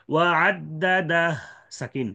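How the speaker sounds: slow ওয়া আদ্দাদাহ with a silent হ; sukun stop. Shown as a demonstration. Teacher showing the first of three stops.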